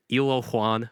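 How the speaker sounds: "Ilo Juan" as an American says it, "eelo hwahn"; gringo-style "Ilo Juan", hard American vowels; american accent spanish. Shown as a demonstration. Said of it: "you gotta say it like a gringo".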